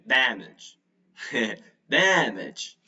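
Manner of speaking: "damage" as DAM-idge, leaning on the open A; model pronunciation. Shown as a demonstration. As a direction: model "damage" for practice, weight on the first syllable. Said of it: "try to pronounce it a few times".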